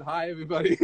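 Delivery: joking Australian greeting; imitated Australian stage hello; offensive Australian accent. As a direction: put on a silly Australian accent. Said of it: "let me do an offensive accent".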